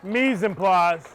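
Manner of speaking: mise en place said slowly, French style; slow careful French mise en place. Shown as a demonstration. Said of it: "as we call it in the restaurant".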